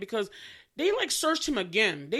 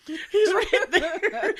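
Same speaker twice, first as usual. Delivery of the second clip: laughing exasperation; 10 semitones higher, 7 dB louder, much slower than usual. Retold or imitated. Mocking the blind searchers.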